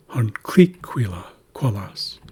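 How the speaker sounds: "huncliquila-" with CLI stressed, slowly; stress on second syllable. Shown as a demonstration. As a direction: hit the "cli" of "huncliquila-", then trail into "quilas". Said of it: "placing emphasis in the word".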